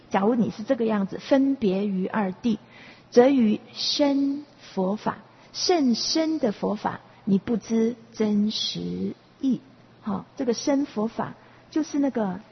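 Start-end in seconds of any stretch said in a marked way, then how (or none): 3.1-9.6 slow, deliberate scripture reading; verse recitation. Acted. Teacher slowly recites the verse's closing line. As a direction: draw out each word of the verse.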